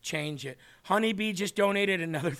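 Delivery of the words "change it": soft, slow and reverent; slow down and speak softly, moved; hushed, solemn repetition. Real, not acted. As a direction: let each phrase sink in quietly. Solemnly repeats the clip's closing words.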